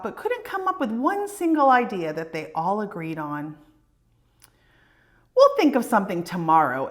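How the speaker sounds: put-on lively read-aloud for children; storybook reading. A narrator's reading. Reading a picture book aloud.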